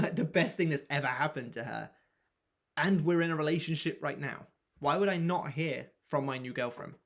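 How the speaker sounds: cocky, boastful self-talk; exaggerated arrogance. Shown as a demonstration. Coach showing an arrogant take of the new thought. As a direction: swagger through it. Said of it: "exaggerated sort of arrogance".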